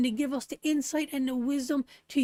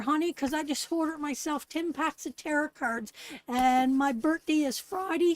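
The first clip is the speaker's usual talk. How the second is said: bossy wife. Retold or imitated. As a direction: boss the husband around. Acting out demanding wife.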